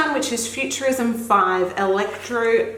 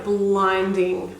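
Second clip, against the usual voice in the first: ordinary talk, nothing marked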